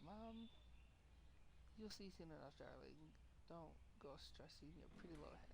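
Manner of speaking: lightly put-on Southern accent; sugary "darling" in a mock Southern accent; bad Southern accent. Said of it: "Southern accents".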